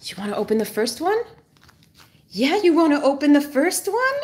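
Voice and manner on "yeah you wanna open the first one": coaxing dog voice. Real, not acted. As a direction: lift the pitch like coaxing a pet.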